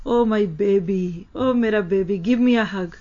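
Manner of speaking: put-on slow, doting coo to a child; mother cooing lovingly to her preteen; tender baby talk. Shown as a demonstration. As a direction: coax the child into a hug. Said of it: "बच्चे को कहते हैं कि".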